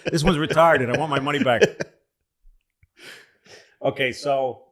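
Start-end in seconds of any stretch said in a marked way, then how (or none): 0.0-1.6 complaining customer sending food back, pitched up; a hammed-up fussy diner demanding a refund; mock snooty diner. Comic telling a monkey-brain joke, as a fussy diner. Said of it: "he pretended to be one of those guys".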